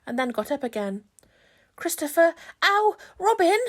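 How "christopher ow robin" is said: higher, louder call from up high. Acted. Pooh calls down to Christopher Robin from the balloon. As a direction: shout down from the balloon. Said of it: "called out the cloud".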